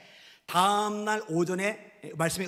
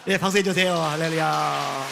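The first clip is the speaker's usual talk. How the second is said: loud call; 11 dB louder than usual. Real, not acted. Pastor calling for applause.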